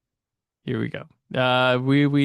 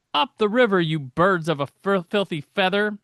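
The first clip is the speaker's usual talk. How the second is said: light imitation of Robin, higher and punchy; Robin catchphrase; 4 semitones higher than usual. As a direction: hurl it at the villains like a cheeky sidekick. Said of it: "that leads us into Robinisms".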